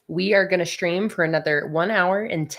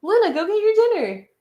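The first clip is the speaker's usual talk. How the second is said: high, louder call to the cat; 12 semitones higher, 6 dB louder than usual. Real, not acted. Owner calling Luna to her dinner, high and louder. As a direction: call her to the bowl, pitched up.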